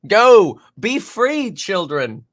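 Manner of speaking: excited shout. Pretend. Releasing kids to play outside.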